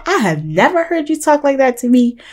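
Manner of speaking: high-pitched, affronted disbelief; retold shock. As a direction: act out being taken aback. Retells her shock at his rudeness.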